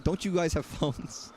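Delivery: slow, drawn-out quote of a game developer, lightly voiced; a light, slow mock of the famous line; imitating the Diablo guy. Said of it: "what was it the Diablo guy said".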